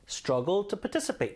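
"struggle to participate" slowly, stressing STRUG and TIC; stressed syllables marked. Shown as a demonstration. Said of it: "강세 잘 주시고 들어보세요". ("struggle to participate" 강세 살려 천천히)

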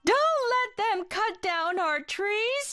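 high little bird voice, pleading. Acted. Birds beg the developers to spare their trees, high pleading voice. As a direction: beg like anxious small birds. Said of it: "cried the birds".

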